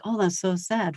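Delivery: sympathetic. Shown as a demonstration. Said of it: "it's like".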